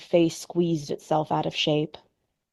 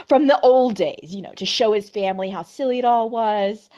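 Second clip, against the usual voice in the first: quavery voice. Acted. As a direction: cover panic with a brittle hostess laugh. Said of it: "in a quavery voice".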